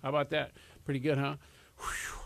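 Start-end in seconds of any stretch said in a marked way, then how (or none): 1.8-2.2 breathless after fast talk; winded, catching breath. Real, not acted. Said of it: "I'm out of breath".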